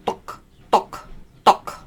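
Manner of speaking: "duk" from the back of the tongue; "duk" deep and throaty. Shown as a demonstration. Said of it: "you're using the back of your tongue".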